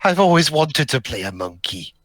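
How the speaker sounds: light Welsh accent, amateur attempt. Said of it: "that was my best Welsh accent".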